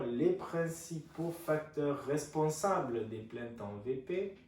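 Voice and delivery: dictating. Shown as a demonstration. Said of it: "je vous laisse noter".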